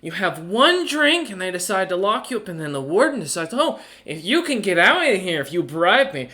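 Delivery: lightly voiced lady rogue telling her tale; complaining Rain. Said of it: "her commoner's clothing and goes".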